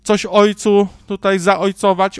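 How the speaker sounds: a hint of a simpering parishioner; mocking pious plea. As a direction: parody a churchgoer begging the priest. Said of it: "a tu".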